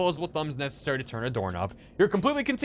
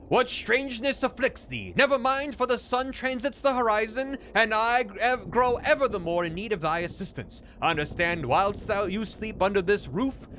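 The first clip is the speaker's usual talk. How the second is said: higher, mock old-fashioned formal speech; archaic landlord; 5 semitones higher than usual. Landlord demanding a signature, mock archaic. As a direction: speak like a stuffy Shakespearean landlord. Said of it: "talking like this".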